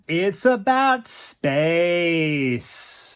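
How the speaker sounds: very slow pretentious drawl; airy drawl. Acted. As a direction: savor each word, very slow. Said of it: "in that airy drawl of his".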